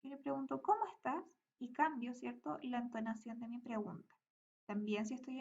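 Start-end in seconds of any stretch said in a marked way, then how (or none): 0.6-1.2 "¿Cómo estás?" asked with a clearly higher rising question tune, a bit louder. Shown as a demonstration. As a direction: lift the pitch on "¿Cómo estás?" to show it is a question. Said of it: "Por ejemplo, el preguntar". (entonación de pregunta, "¿Cómo estás?" subiendo el tono)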